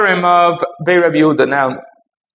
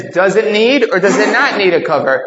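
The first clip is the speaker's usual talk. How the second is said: open question; 3 semitones higher than usual. Shown as a demonstration. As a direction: genuinely open either-or question, slightly raised. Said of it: "They didn't open up the question".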